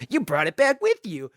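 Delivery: a hint of a spooky ghost line. Retelling the ghost on the bridge, in a light eerie voice. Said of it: "it goes".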